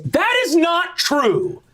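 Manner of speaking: very high, slow, clipped denial; high indignant sister voice; curt eldest sister. Acted. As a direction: shut it down. Rococo rebuts Citrina.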